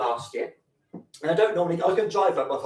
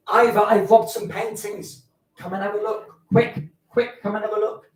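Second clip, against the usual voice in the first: mock excited urgency; 6 semitones higher, 7 dB louder than usual. Excited friend running in.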